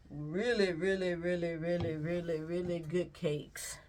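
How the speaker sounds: each really leaned on, slowing into good cakes; emphasis on really. Shown as a demonstration. Baker praising her sister's cakes, with really stressed. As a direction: stretch out the really, really, really. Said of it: "when I put emphasis on that really".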